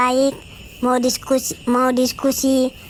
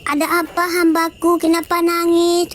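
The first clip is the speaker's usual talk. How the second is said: Mary voice; 4 semitones higher than usual. Acted. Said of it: "katanya kan".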